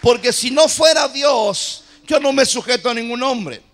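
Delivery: emphatic, insistent sermon climax; impassioned preaching. Real, not acted. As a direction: drive the lesson home to the congregation. Preaches the point at full force.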